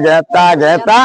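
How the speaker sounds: গেতা with an e sound, not গীতা; the dying father can only manage গেতা; mispronounced Gita. Retold or imitated. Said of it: "গীতা উচ্চারণ হয় না".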